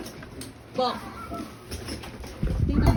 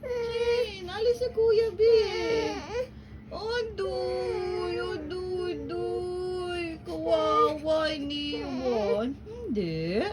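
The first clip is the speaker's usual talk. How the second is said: pretend crying; 3 dB quieter, much slower than usual. Mother mock-cries over toy.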